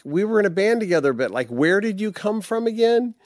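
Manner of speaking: high hammed-up puzzled friend; imitating a puzzled old friend. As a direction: squeak out the question like a baffled bandmate. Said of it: "you're like".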